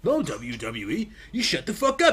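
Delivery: high, loud mock scolding; retold outburst. Telling the company off, high loud mock anger. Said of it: "And it's like".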